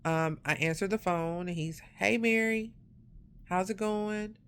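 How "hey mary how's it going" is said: higher-pitched imitation of a casual caller; casual normal greeting. Caller greeting a friend like everything's normal, casual and higher-pitched. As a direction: greet her lightly as if nothing happened. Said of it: "Talking to me like everything's normal".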